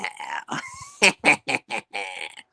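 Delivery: low evil witch cackle; gleeful wicked cackle. Acted. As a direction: cackle over the brewing poison. Witch laughs at her plan.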